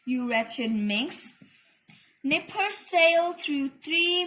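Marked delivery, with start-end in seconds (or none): 0.0-1.3 shouting. A narrator's reading. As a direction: yell after the runaway. Farmer shouts at Minnie.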